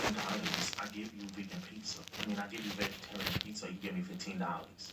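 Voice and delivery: lightly put-on voice for the Domino's cashier; a hint of a goofy cashier; Domino's cashier quoting the price, lightly mocked. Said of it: "He doesn't talk like that".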